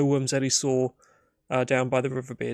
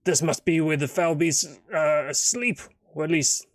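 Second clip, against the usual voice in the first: dwarf companion. Acted. Dwarf showing the lad a likely lair, lightly voiced. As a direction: point it out, then reason it through. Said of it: "He goes".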